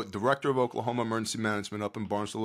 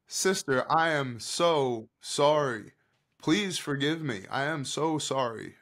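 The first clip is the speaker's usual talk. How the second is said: pleading apology; 4 semitones higher than usual. Retold or imitated. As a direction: plead for forgiveness, stretching the words. Retold tearful apology to woman.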